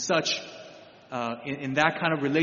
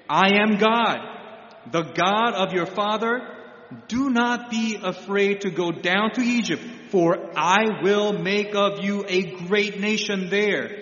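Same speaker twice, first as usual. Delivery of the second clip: a lightly raised, solemn voice of God. Acted. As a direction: proclaim it as God speaking to Jacob. God speaking to Jacob, scripture.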